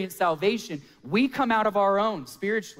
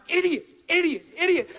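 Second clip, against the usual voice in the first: high-pitched mock exasperation at himself; self-scolding; 10 semitones higher than usual. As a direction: berate yourself in a much higher voice. Scolding himself after the blunder.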